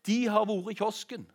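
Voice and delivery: retold tattletale shout, high and loud; shouted call. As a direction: call out to give the boys away. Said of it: "og så ropte han".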